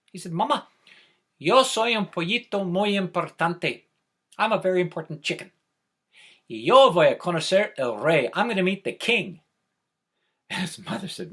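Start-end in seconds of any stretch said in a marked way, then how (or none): 0.3-9.4 proud little chick. Acted. Proud chick boasting to mother.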